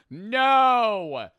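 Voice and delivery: loud, high drawn-out no; high cry of protest; dismayed cry. Real, not acted. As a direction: wail it out in defeat. Reaction to losing a round.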